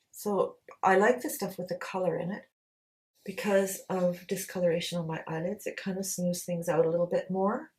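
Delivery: talking into her hand; muffled behind a hand; hand over mouth. Real, not acted. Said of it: "Sorry about talking into my hand".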